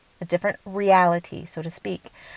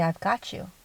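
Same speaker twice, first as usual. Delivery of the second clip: reassuring higher self; 7 dB quieter than usual. Retold or imitated. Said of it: "Higher self will say".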